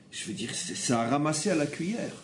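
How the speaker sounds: usual speaking voice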